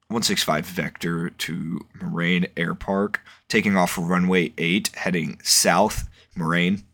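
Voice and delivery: slow, measured pilot radio call. Shown as a demonstration. Student pilot showing how he radios the tower, slow and formal. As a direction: read it out like calling the tower. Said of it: "I'd be like".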